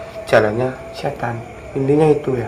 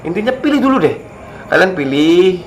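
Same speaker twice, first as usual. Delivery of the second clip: much higher, pressing the point; emphatic urging; 6 semitones higher than usual. Real, not acted. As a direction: push the advice up high. Repeated advice, urging the viewers. (desakan bernada tinggi)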